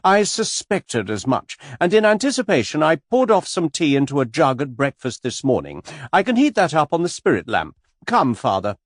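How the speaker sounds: spring it on them with triumph; triumphant matron. A narrator's reading. Missus Caldecott outwitting the tour guide, triumphant. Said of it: "air of one springing a mine".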